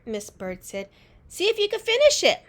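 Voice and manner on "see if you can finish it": teacher voice. A narrator's reading. Teacher encourages child.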